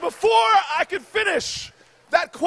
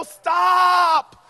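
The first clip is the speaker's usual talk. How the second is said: mock yell of stop; a sudden retold shout at a stranger; 2 semitones higher, 5 dB louder than usual. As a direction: bark it to halt her. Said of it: "I scream at her".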